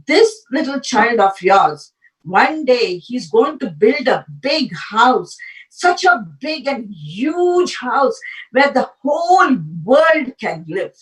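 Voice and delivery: slow, grand astrologer's prediction, swelling on the huge house; a hint of a seer foretelling greatness, drawn out; solemn prophecy. Astrologer tells the parents of the newborn, slow and grand. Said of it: "the astrologer predicted".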